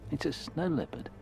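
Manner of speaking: light up at the find; excited. Real, not acted. Seeing the leopard on tape.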